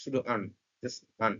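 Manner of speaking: "আন" short and unstressed, not a full an; weak form an. Shown as a demonstration. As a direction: clip "আন" to a quick weak un. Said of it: "ওরা অ্যান উচ্চারণ না করে".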